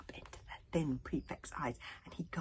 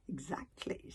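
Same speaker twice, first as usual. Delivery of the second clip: smug smile; 2 semitones lower, 6 dB quieter than usual. Acted. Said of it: "smiled Alvin".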